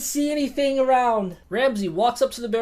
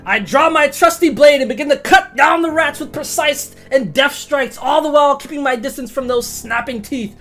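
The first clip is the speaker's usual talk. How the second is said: in-character narration; 3 dB louder than usual. Acted. Player voices character action.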